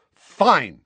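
loud, high burst of temper; yell. A narrator's reading. Nephew losing his temper with uncle, yelling. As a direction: yell it in exasperation. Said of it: "yelled Harry".

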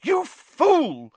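high, furious cry; cried out. A narrator's reading. McGonagall crying out at Fudge, high and furious. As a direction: hurl the insult. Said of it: "Professor McGonagall cried".

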